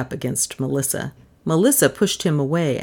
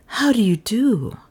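higher, swooping polite interest; feigned interest; 5 semitones higher than usual. A narrator's reading. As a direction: greet them as if actually interested. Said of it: "as though she were actually interested".

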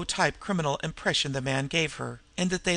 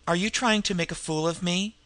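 half scream; 3 semitones higher than usual. Acted. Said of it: "he half screamed".

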